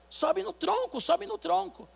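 high calling out, pitch well up; someone shouts. Acted. Bystander calling to the drowning man, high mock shout. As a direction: yell to him across the water, high. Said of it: "alguém grita".

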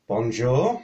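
lightly put-on French accent. A greeting at the game table in a French accent. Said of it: "you can do a French accent".

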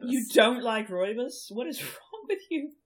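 incredulous, laughing; laughing disbelief. Real, not acted. Amazed at disliking Rooibos.

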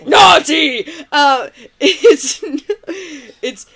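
bad Austrian accent, fighting off laughter; Arnold impression. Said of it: "you gotta do a Arnold".

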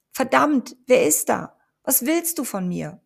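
loud, high panicked cry; frightened shout. A narrator's reading. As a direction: yell into the shadows in fear. Amber panicking, shouting into corners.

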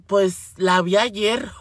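lenta, pensándoselo; respuesta pausada imitada. Retold or imitated. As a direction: contesta arrastrando las palabras sin prisa. Imita respuesta calmada de tía. (respuesta pachorruda imitada)

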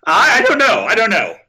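high frantic panic; scared stiff, voice jumping up; panicked. Pretend. Creature crawling on him, panicked.

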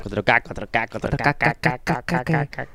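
deep mock announcer intoning. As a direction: boom it out like a TV promo. Announcing video quality.

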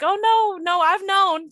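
imitating dad, high and loud: no, no, I've known; a hammed-up insistent dad; mock emphatic protest. Dad to wife, insisting he always knew: mock emphatic, high and loud.

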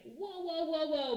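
mock alarmed whoa. Authorities voiced as alarmed.

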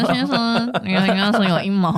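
laughing through a fake announcement; can't hold the robot voice for laughing; mock alert while laughing. Continuing mock app alert.

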